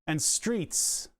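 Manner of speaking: Philadelphia accent on skookle and streets; Philly accent. Shown as a demonstration. Streamer showing chat his Philadelphia accent, slow drawled Philly vowels. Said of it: "I say things like".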